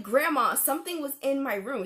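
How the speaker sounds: retold alarmed protest; urgent insistence. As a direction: burst out with it to grandma. Retold urgent plea to grandma.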